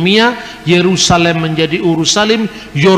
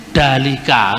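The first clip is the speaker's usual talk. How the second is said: dalika in Bali style; Balinese accent; 4 semitones lower, slower than usual. Shown as a demonstration. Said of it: "kan orang Bali ngomong". (logat Bali, dalika)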